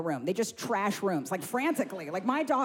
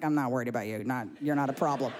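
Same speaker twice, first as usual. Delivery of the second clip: put-on dismissive child; 5 semitones lower than usual. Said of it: "she just looks at me like".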